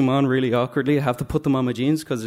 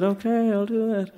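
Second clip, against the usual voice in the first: reluctant okay; 9 semitones higher than usual. Retold or imitated. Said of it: "So I said".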